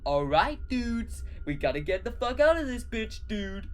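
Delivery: loud high bro hype; hyped yell. Acted. George Washington yelling the dudes into action. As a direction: pump everyone up. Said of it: "yelled George Washington".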